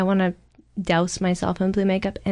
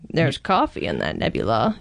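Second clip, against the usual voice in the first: put-on New England accent; 6 semitones lower than usual. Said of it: "You have to do the New England accent".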